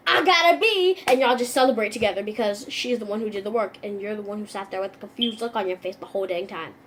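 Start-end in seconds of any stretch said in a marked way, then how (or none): 0.1-1.0 proud. Acted. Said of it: "And then you're like".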